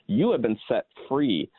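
voicing Paul's frustration with the churches; exasperated Paul. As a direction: urge them, fed up. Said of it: "the exasperation he has".

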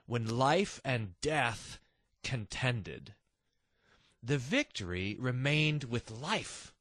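slow, measured reading of hymn lyrics; reciting a hymn. Shown as a demonstration. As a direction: recite it slowly and reverently, line by line. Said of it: "this great line... He says".

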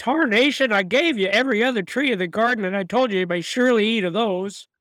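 mild hillbilly God voice; hillbilly accent. Retold or imitated. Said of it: "God sounds like a hillbilly".

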